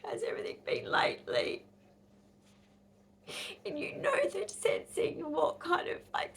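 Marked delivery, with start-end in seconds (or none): 0.0-1.6 much higher, sing-song fake concern; mock sympathetic voice. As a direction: overdo the caring doctor tone. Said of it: "you hear it in the voice".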